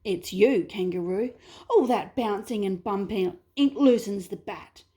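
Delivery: a touch of offended huff; lightly haughty, bristling; mild emu indignation. Acted. Emu answers the wombat's accusation, mildly indignant. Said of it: "The emu was angry".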